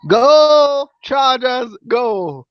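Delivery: high, loud first word then fading. Pretend. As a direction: belt out the team chant. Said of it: "You didn't hear him".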